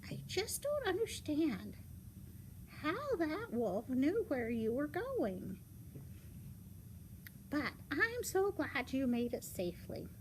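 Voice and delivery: lightly voiced storybook grandmother. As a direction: play a bewildered granny, easing into relief. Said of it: "she goes".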